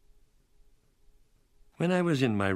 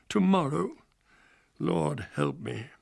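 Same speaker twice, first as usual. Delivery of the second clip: "tomorrow," much higher and louder, rising in panic; rising dread; 4 semitones higher, 4 dB louder than usual. Acted. Jonathan alone in his room, "tomorrow," high and loud in dread. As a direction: break out with "tomorrow," as the fear hits. Despairing diary repetition.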